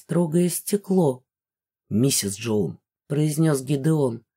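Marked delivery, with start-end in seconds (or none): 1.9-2.8 much lower, slow, grave address; a dry, deep-voiced soldier; Gideon, dryly formal; stern general. A narrator's reading.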